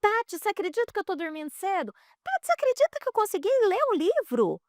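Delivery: fast, high, amazed imitation of the girl; girl bragging, fast and rising high; excited teen. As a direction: gush like a proud teenager. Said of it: "Ela falou".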